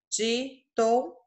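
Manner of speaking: "ditongo" drawn out slowly, split the way pupils did; slow wrong split. Shown as a demonstration. Teacher mimics pupils' wrong separation, slow. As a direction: stretch out "ditongo" to show the bad split. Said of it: "Vocês colocaram, por exemplo".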